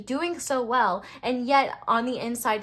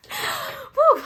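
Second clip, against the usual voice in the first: high, breathy laughing exhale; laughing whew; 7 dB louder than usual. Real, not acted. Reader catching her breath after a rant, laughing. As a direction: let the heat out with a laugh. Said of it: "I'm heated".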